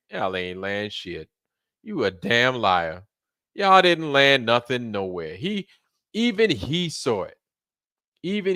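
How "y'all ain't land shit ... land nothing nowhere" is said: put-on old man scoffing. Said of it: "He was like".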